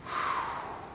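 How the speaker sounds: soft, breathy exhale; relieved sigh. Acted. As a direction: let out a settling sigh before speaking. Acting the moment of false hope.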